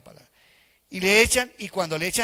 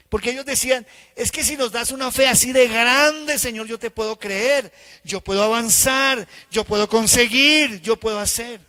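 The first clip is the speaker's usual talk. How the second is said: much louder, higher preaching; preaching at full force; 6 semitones higher, 10 dB louder than usual. Real, not acted. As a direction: build the disciples' demand. Preaching the disciples' demand. (predicación a todo pulmón, aguda y fuerte)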